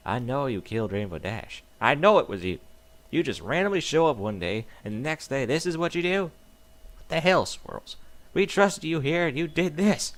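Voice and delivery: angry friend accusing a killer; angry accusation. Acted. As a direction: confront the traitor, voice climbing. Applejack accuses the narrator.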